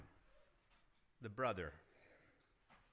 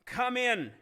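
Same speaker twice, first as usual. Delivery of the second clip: begging father again; 7 semitones higher, 4 dB louder than usual. Acted. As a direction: ask once more, gentler and waiting. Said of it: "he came out and he begged him".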